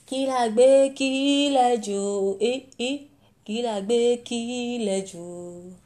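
put-on singsong child pestering parents; calling out kí la gbé. Child pestering mother for her money. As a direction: chant it like a kid nagging.

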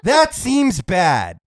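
slow, dry understatement; deadpan repeat. Retold or imitated. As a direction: say it flat-faced and slow. Repeats mock reply deadpan.

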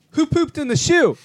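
high, loud shouted question; coach's outburst. Retold or imitated. Coach discovers the mess in the stall, shouted outburst.

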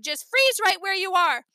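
dad firmly halting the chaos; shouted order. A narrator's reading. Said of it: "Dad shouted".

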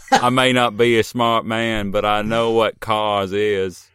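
slow, lightly voiced Forrest Gump; a hint of Forrest Gump, slow; Forrest Gump impression. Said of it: "crossover with Forrest Gump".

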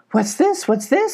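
high, questioning goat voice; startled mountain goat. Acted. Mountain goat finding strangers, high and startled. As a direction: ask it twice in high-pitched alarm.

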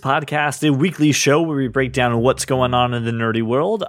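big game show host welcome; announcer voice. Pretend. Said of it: "I was going real announcer voice for that one".

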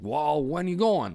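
high, slow mock neighbor; imitating the neighbor. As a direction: drag it out like the old landowner. Quoting the neighbor.

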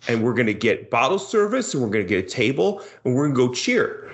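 hyped-up party bro; lightly voiced frat bro planning a bachelor party. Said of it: "Brad's impersonation of a bro".

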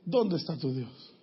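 low, soft sneering question; mocking taunt. Coworker mocking the believer's faith, low and soft. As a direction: drop to a hushed jab. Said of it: "te dijo un compañero".

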